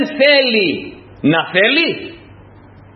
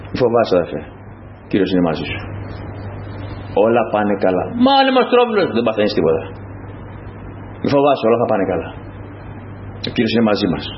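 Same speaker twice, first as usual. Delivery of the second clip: softer, lower, calm comforting voice; calm reassurance; 10 semitones lower, 4 dB quieter than usual. Pretend. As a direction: reassure a frightened brother gently. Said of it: "Θα σηκώνονταν μέσα στους μαθητές".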